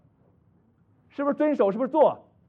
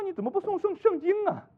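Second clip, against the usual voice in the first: retold challenge; 12 semitones higher than usual. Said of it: "我说".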